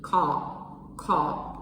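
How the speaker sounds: "Call" low, falling, cut short; stopped low ka. Shown as a demonstration. Teacher showing tone mark two: low, stopped "Call". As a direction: drop "Call" and stop it. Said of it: "rising one or a higher one".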